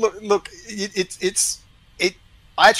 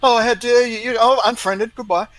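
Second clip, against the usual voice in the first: mocking indignation; 7 semitones higher, 6 dB louder than usual. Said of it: "And it's like".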